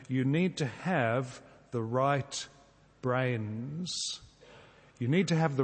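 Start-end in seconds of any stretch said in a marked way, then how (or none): 0.1-4.2 slow and deliberate. Shown as a demonstration. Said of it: "I've changed this into this little phrase".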